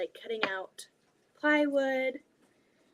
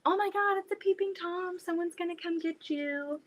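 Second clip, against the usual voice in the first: mock spooky warning; 7 semitones higher, 3 dB quieter than usual. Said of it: "Crystal saying".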